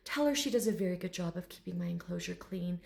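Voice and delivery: soft, lightly formal compliment; proper gentleman. Retold or imitated. Dragon thanking his owner, softly proper. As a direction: praise her with quiet dignity. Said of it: "this very proper gentleman".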